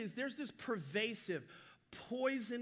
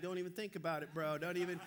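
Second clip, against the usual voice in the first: mock warning; 5 semitones lower than usual. Seated passenger warning others off.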